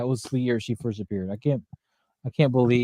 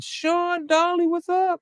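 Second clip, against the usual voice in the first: high sing-song greeting; much slower than usual. Real, not acted. Greeting a viewer on stream.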